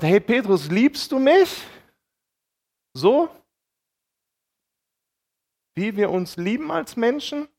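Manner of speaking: reach out with a lifted, urging voice. Acted.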